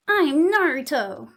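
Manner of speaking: lightly voiced anime boy hero, slow; a hint of a plucky anime boy; shonen protagonist voice. Shown as a demonstration. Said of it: "I have a shonen protagonist voice".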